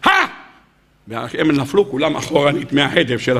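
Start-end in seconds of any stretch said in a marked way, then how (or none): 0.0-0.3 mock battle shout. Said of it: "נותן צעקה אחת".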